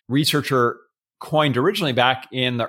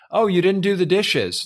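mock passive-aggressive, pitched up; a pointed little household dig, higher voice; 6 semitones higher than usual. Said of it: "sound like passive aggressive things".

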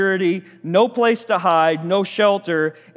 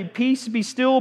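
"Peace, be still" said higher, ending on a lifted "still"; casual retelling; 6 semitones higher, slower than usual. Shown as a demonstration. Preacher marvelling at Jesus' calm answer, light and lifted. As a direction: toss it off lightly, like it's nothing. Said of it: "you just wake up and say".

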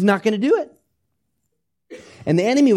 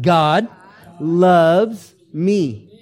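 bolder, louder, drawn-out declaration; 6 dB louder, much slower than usual. Shown as a demonstration. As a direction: call it out louder for the room. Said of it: "One more time".

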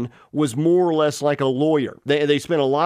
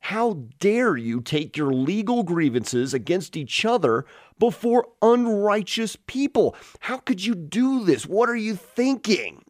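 higher, rebuking the Corinthians in disbelief; indignant Paul; 4 semitones higher than usual. Retold or imitated. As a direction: scold them like an outraged apostle. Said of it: "as though Paul is saying".

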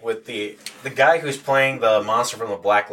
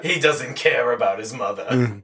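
lightly voiced old lady; mock-plaintive old mother impression. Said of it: "he dresses up as the old lady".

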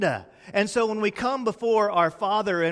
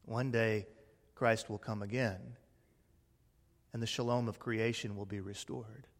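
soft, lower hopeful hush; hushed promise; 6 semitones lower, 10 dB quieter than usual. Acted. Preacher softly promises the congregation Christ's return. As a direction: drop to a near-hush of hope.

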